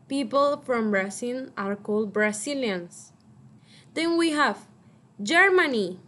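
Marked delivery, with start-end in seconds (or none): 5.2-6.0 loud model word. Shown as a demonstration. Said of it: "I want you to repeat after me".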